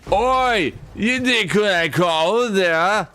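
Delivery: high, hammed-up Scottish accent, slow; mock a Glaswegian mumble in a Scottish accent. Imitating a Scottish teammate's quotes, hammed-up Scottish accent. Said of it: "speak with a Scottish accent".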